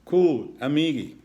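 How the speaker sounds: trying-too-hard laid-back cool. A narrator's reading. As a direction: fake a relaxed surfer tone. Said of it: "tried to match the turtle laid-back tone".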